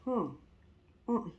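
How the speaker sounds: humming while sipping coffee; while sipping a drink. Real, not acted. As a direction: sip of coffee mid-sentence. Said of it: "Excusez-moi, je bois mon café".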